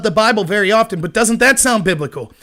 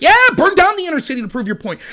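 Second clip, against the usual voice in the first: higher, sarcastic mock enthusiasm; mock cheering on; 6 semitones higher than usual. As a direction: egg them on with mocking approval. Mimicking far-away supporters of the rioting.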